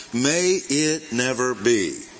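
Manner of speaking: slow, deliberate refusal; measured but emphatic no; emphatic denial. Retold or imitated. Teacher quoting Paul's answer to the reader, slow emphatic denial. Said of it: "most emphatic no you can possibly get".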